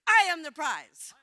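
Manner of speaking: loud declaration; big, projected affirmation; proclaimed to the universe. Shown as a demonstration. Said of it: "say it to the universe".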